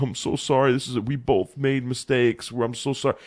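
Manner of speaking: mild imitation of someone apologetic; softening into a mock apology; lightly acted contrite pleading; retold apology. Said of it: "then he sounds apologetic right after".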